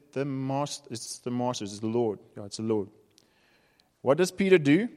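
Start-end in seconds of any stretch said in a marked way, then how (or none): 0.1-2.9 soft, awed murmur, much quieter; hushed recognition. Retold or imitated. Disciple softly telling Peter it's the Lord, in an awed hush. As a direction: breathe it like a secret discovery.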